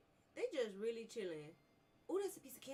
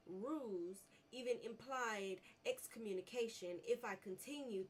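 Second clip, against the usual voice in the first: measured reading of an in-game letter; reading a note. Acted. Gamer reads a lore note aloud. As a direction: read the document steadily aloud.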